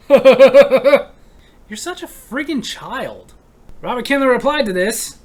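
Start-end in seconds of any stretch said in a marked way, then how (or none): 0.1-3.3 laughing, louder and very slow; laughing scold. Acted. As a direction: chuckle through the insult. Laughing at the joke.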